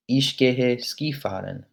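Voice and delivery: "ich gehe Skifahren" said slowly, each word clear; slow model sentence for learners; slow German demo. Shown as a demonstration. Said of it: "That's how you'd say it in German".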